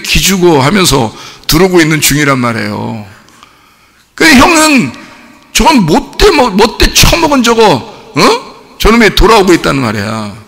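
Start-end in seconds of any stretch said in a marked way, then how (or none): 5.5-10.3 acted anger. Older brother about his returning younger brother, acted anger. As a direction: play a fuming older brother, pitched up. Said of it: "승질이 난 거예요".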